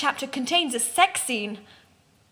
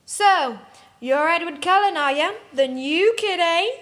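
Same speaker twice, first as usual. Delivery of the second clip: put-on higher, louder mean-girl taunt; stupid exclamation; 5 semitones higher, 5 dB louder than usual. A narrator's reading. Prep girl taunting the new kid, high, loud and snotty. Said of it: "the prep exclaimed stupidly".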